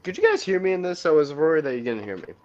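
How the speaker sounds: talking muffled through a helmet. Real, not acted. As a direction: voice dampened inside a helmet. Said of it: "you were just a little muffled".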